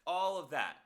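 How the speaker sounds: sped-up high squeaky voice; chipmunk voice. Real, not acted. Sped-up playback of own voice.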